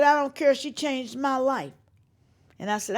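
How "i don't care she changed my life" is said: raised, loud insistent grieving fan; upset fan. Retold or imitated. Upset fan telling singer about another singer, loud insistent voice. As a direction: insist through grief.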